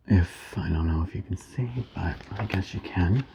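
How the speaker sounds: soft whispered aside; whispering. Real, not acted. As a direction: drop to a whisper. Aside to the viewers.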